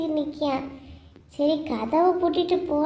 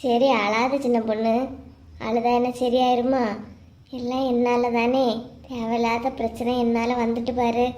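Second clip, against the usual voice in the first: gentle comforting; 2 semitones lower than usual. Acted. Older sister consoling the crying young wife, gently. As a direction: soothe her so she stops crying.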